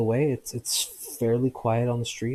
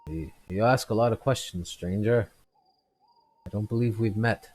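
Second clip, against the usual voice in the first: a hint of suspicious drunk, louder; wary drunk; 2 semitones higher, 4 dB louder than usual. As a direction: squint at the stranger, mildly suspicious. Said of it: "He's like".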